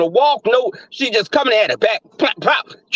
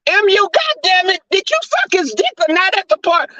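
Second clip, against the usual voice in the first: higher, sharp demand; pitched-up exasperated demand; angry confrontation; 8 semitones higher than usual. Acted. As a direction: grill her like you've lost patience. Kimmy confronting angrily.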